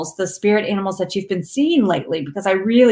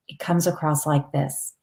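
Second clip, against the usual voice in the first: lower, guttural dragon voice, more from the throat; lower dragon resonance; 5 semitones lower, 6 dB quieter than usual. Shown as a demonstration. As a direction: let it sink down like a dragon speaking. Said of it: "It, it sounds more down here".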